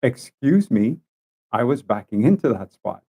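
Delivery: mild called-out complaint, held in check; retold shout. Driver to the lady who took the spot, mildly shouted. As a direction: call out firmly but keep it controlled. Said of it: "I just shouted out".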